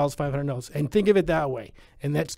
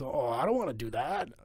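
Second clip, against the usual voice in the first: whiny trainee; 5 dB quieter than usual. Retold or imitated. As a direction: whine like a reluctant newbie. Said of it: "And the kids".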